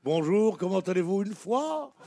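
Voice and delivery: put-on a light Belgian accent ending on "une fois"; lightly mocked Belgian accent. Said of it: "des Belges qui te disent".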